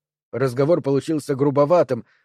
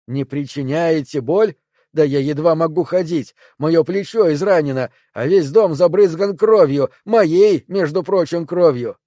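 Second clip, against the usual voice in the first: louder, climbing indignation peaking on кровью; indignant outburst; 3 semitones higher, 4 dB louder than usual. Acted. Perry rails at the triangles about his own blood. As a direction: throw it back at them in disbelief.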